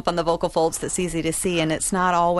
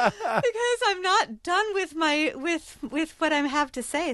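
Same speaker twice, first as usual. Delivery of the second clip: uptalk; 9 semitones higher than usual. Real, not acted. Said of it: "I was just thinking that".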